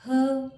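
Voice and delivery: her said as a lone, punched 'huh'; isolated h sound. Shown as a demonstration. Teacher giving learners the letter's sound, isolated h. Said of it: "और ह इसका sound है".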